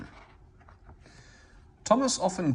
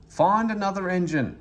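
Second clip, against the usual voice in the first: ordering; 7 semitones higher, 4 dB louder than usual. A narrator's reading. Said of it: "he ordered".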